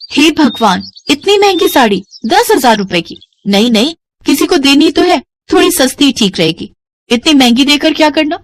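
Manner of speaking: mild gasp of surprise at the cost; shocked at price. Acted. Bhavna shocked by the sari's price tag in the mall. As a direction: react to a steep price tag. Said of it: "हैरान रह जाती है".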